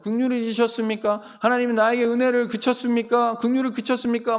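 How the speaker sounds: acted lament, question upon question; outpoured lament. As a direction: pour out the complaint to God. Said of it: "갑자기 시인이 막 탄식을 쏟아냅니다".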